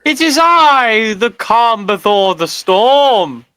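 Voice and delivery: dramatic entrance. Acted. Theatrical grand entrance.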